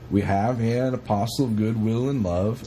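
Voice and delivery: lightly attempted Swedish accent; a hint of a foreign, Swedish lilt. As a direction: put on a mild, generic Swedish accent. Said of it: "replied in his best Swedish accent".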